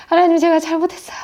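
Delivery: high, hurried, tearful-sounding apology; acted-out panicked repentance; fearful plea. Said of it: "너무너무 두려워가지고".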